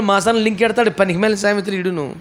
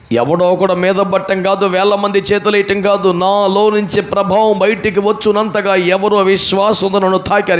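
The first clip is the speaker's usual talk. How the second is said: forceful preaching; slower than usual. Acted.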